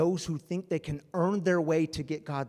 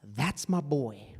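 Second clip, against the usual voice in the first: put-on slow, fond "That's my boy"; proud father; slower than usual. God as a proud dad, slow and fond. In our vernacular.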